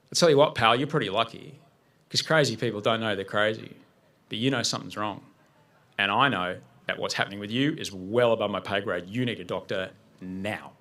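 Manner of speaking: calm reassurance. Retold or imitated. Calm mentor answers the panicked caller.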